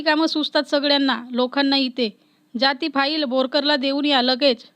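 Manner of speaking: a light, narrated office scold, not a full yell; scolding an employee. Acted. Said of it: "किती ओरडतेस".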